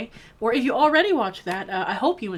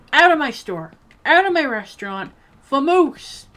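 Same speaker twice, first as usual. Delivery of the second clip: loud, higher mock-bossy dismissal; mock angry ejection; 4 semitones higher, 8 dB louder than usual. Burger seller throws customers out, mock angry shout. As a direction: playfully order them out at full voice.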